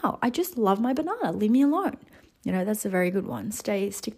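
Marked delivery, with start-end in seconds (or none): 0.0-2.0 higher, mock-petulant comeback to mum; playfully exaggerated protest, pitched up; retold protest. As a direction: act out brushing mum off. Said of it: "I'm like".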